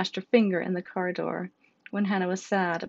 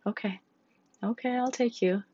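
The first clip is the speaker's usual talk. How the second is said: sighing; 4 semitones higher than usual. Acted. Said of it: "Faye sighed again".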